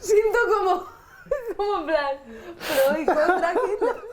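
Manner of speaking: giggling through the line; cracking up mid-line; laughing. Real, not acted. Actor cracking up.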